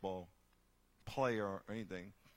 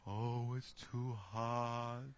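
whiny complainer; much slower than usual. Retold or imitated. Voicing complainer.

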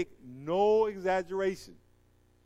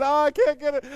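mock panic; 8 semitones higher, 10 dB louder than usual. Man trapped by squid.

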